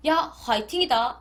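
slow North Korean-accent cheer, falling on 야. Shown as a demonstration. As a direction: say it like a blunt North Korean buddy. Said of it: "북한 말로 화이팅 하면 이렇게 돼요".

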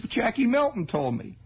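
put-on high squeaky boy voice; high anxious kid explaining; nervous kid. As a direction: squeak out the excuse.

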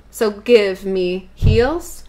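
drawn-out, rising count-in to the beat; teacher counting in, stretched out; slow count-in. Shown as a demonstration. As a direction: cue the class in slowly. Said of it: "slow count-in".

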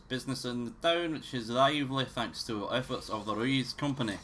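lightly put-on Scottish reading voice; a touch of Scottish narrator; Scottish accent. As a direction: read it out in a mild mock Scottish accent. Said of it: "in a Scottish accent".

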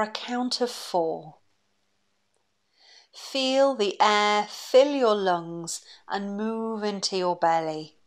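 calm, unhurried breathing-exercise voice; guided meditation. Acted. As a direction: guide them gently through each breath, leaving long pauses.

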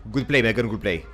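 dryly sarcastic praise. Real, not acted. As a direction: praise them with light sarcasm. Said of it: "I'm being sarcastic".

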